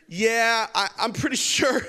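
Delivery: hammed-up hypochondriac, all in; loud mock insistence. Preacher playing himself insisting he has typhoid, loud.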